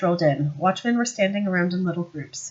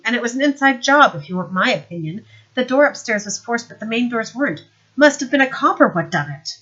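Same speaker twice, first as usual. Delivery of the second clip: higher, louder smirking sergeant; Knock's voice; 5 semitones higher, 6 dB louder than usual. Acted. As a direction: play the sly sergeant, pleased with himself. Knock reports the theft.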